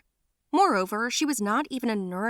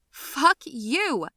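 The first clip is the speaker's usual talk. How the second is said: high, louder snap back; angry retort; 6 semitones higher, 4 dB louder than usual. Retold or imitated. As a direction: bite back at the neighbor. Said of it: "And I was like".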